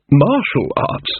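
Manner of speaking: very slow, drawn-out MARTIAL ARTS; slow, stunned repeat. Acted. King rereads the title, slowly dumbfounded.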